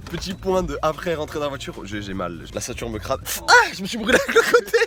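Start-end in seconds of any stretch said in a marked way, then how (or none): 3.5-4.8 cri de douleur. Real, not acted. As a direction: yelp of sudden pain, high and fast. Se brûle à la portière. (cri aigu de douleur)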